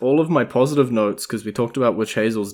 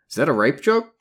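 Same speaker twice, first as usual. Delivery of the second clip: shocked partner; 6 semitones higher, 5 dB louder than usual. Retold or imitated. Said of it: "they turned to me and they went".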